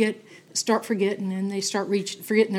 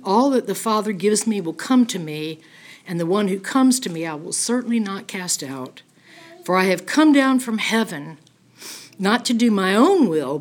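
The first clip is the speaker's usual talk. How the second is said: louder, solemn Bible reading; scripture reading; 4 dB louder than usual. Acted. Teacher reading John chapter six to the class, solemn and louder. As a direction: read the verses as a proclamation. Reads verse thirty-seven aloud.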